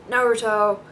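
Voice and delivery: the original Japanese "Naruto", firmly said; Japanese-style Naruto. Shown as a demonstration. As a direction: give "Naruto" its Japanese vowels, nah-roo-toh. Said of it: "I hate saying it with American accent".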